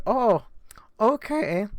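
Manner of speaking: high-pitched imitation of the Spanish woman. Spanish woman answering the driver's denial, high imitated voice. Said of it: "And so she's like".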